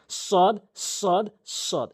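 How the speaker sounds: long, heavy "সদ", each separate; model "সদ". Shown as a demonstration. Teacher models the letter for learners, long emphatic "সদ". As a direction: draw out "সদ" with a strong s. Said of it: "এভাবে উচ্চারণ করতে হবে".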